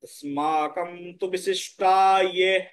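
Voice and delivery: স্মাকম তু বিশিষ্টা ইয়ে said slowly, stress on বিশিষ্টা; careful recitation. Shown as a demonstration. Teacher models the phrase for learners, slowly and clearly. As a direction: read each word out carefully for the class. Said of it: "এর উচ্চারণ তাহলে".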